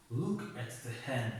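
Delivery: each word drawn out slowly for the learner; slow, careful model reading. Shown as a demonstration. Teacher reading the phrase to Bahram, slow and clear. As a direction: say it slowly so Bahram can repeat it. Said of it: "واسه بهرام خطاب کرده استاد است".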